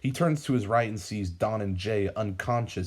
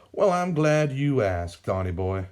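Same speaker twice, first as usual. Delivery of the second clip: put-on old villain gloating at the captured hero; sly villain; 5 semitones higher, 5 dB louder than usual. A narrator's reading. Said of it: "Sam replies".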